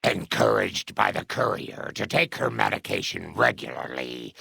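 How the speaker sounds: epilogue narration. A narrator's reading. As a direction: narrate a life's ending with weight.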